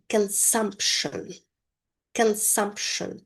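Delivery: "consumption" said slowly with no P sound; silent P in consumption. Shown as a demonstration. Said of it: "letter P is not pronounced".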